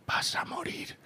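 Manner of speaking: unvoiced whisper with a laugh; whispered in the ear. Comedian whispering to him on stage, joking whisper. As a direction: whisper it right into his ear as a joke. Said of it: "me dice al oído".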